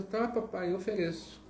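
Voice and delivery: put-on a small boy eagerly agreeing; little boy voice.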